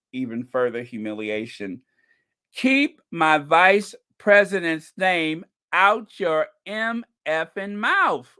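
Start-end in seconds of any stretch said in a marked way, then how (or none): 2.5-8.3 slow, firm, loud warning; angry warning. Acted. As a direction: spell out every word with menace.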